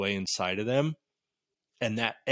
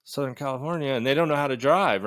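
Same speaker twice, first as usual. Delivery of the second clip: imitating a road-rager's indignant protest; higher-pitched mock outrage; mock angry; 3 semitones higher than usual. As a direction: gripe like someone pissed off. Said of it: "It's like, you're just angry".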